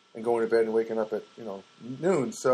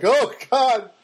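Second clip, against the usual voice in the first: high, louder, giddy mock of a tired giggler; mock sleepy giggler; 10 semitones higher, 5 dB louder, slower than usual. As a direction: lightly send up someone laughing from sleepiness. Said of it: "I'm not like".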